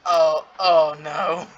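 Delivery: slow, dread-filled "oh no"; dawning dread, drawn out; afraid. Acted. Hearing footsteps, being chased.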